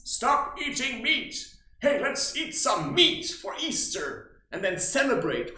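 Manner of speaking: loud, slow mock sermon; mock preaching. Sarcastically quoting Jesus to meat eaters, loud and slow. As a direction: quote Jesus with sarcastic weight. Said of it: "Jesus's teachings".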